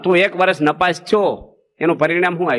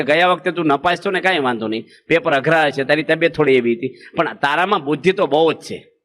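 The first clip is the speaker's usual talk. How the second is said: slowly and gently; 3 semitones lower than usual. Shown as a demonstration. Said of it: "ધીરે રહીને બોલો".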